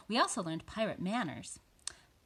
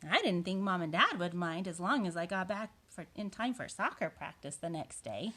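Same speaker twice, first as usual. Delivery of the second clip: lively picture-book narration; reading to children. A narrator's reading. Boy tells of joining pirates, storybook narration. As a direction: read it as the boy's own tale.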